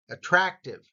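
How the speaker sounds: "attractive" with the "trac" punched; stress on second syllable. Shown as a demonstration. Teacher reminding learners of the emphasis, stressed middle syllable. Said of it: "notice ra".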